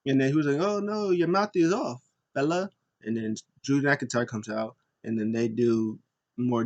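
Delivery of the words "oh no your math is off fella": lightly hammed-up, high-pitched correction; mock taunting correction. Wrestler correcting rivals' count, mock teasing. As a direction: tease them over their bad count.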